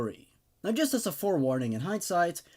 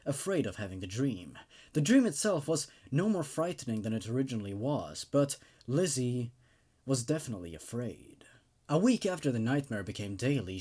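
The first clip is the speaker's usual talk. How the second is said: story narration; 2 semitones lower than usual. A narrator's reading. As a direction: tell the horror tale evenly, drawing listeners in. Reads creepypasta story aloud.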